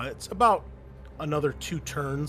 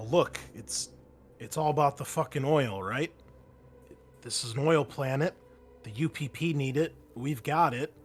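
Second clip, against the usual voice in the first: Mason's voice. Acted. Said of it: "Mason says".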